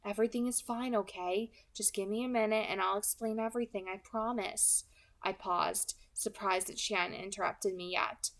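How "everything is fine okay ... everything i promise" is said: soothing. Acted. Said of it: "I said in my most soothing voice".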